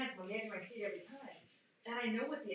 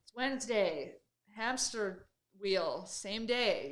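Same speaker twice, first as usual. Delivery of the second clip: sarcastic weary; 7 dB louder, much slower than usual. Retold or imitated. Weary Wednesday routine voice.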